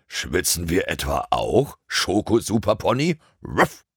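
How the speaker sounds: lightly mock the pony like a cheeky dog; lightly voiced teasing dog. A narrator's reading. Dog teases his pony friend. (leicht angedeuteter frecher Hund, neckend)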